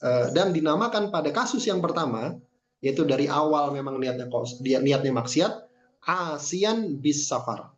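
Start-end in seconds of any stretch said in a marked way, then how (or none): 6.1-7.7 "asian bis safar" very slowly, each sound stretched; drawn out, "safar" held long; slow term. Shown as a demonstration. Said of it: "Ya, asian bis safar".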